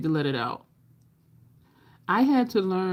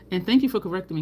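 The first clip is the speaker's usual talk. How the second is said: ordinary delivery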